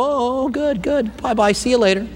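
high, airy "sure, sure" brush-off; dismissive brush-off. Retold or imitated. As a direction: humor them and wave them off. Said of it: "I might just go".

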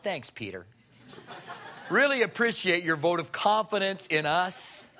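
dry, laughing sarcasm; mock gratitude with a smirk; sarcastic thanks. Disciples answer Peter's boast, sarcastic and laughing. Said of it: "what the other disciples felt like".

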